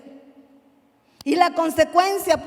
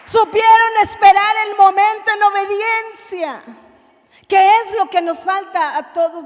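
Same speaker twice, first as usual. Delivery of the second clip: loud, raised, impassioned sermon voice; ringing pulpit proclamation; full-force preaching; 3 semitones higher, 7 dB louder than usual. Real, not acted. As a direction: preach it out with building force to a shout.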